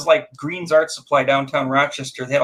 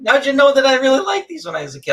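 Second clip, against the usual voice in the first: mock delighted surprise; 8 semitones higher than usual. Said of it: "I go".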